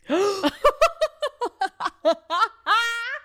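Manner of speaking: high, loud shriek of laughter; scream-laugh at a scary photo. Real, not acted.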